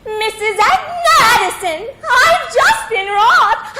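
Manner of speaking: breathless, rushed report of a robbery; frantic phone call. Acted. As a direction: panic into the phone, voice cracking. Wife phoning police after robbery.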